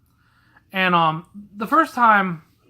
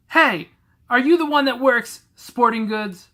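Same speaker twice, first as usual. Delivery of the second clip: imitating the fat lady; 7 semitones higher, 3 dB louder than usual. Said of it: "the fat lady says".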